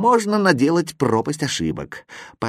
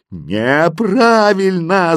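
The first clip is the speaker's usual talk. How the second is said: loud, high, stretched-out yell; 7 semitones higher, 5 dB louder, much slower than usual. A narrator's reading. The signs reject the boy's spelling, yelling. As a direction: bellow it long and rising. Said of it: "заорали знаки".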